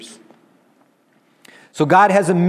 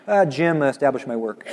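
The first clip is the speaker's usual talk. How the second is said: bored. Acted. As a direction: say it like dull routine. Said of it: "kind of a boring".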